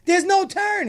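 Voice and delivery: arguing back at the cop, mock shouting; mock indignant shout. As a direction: insist there is no turn, loudly.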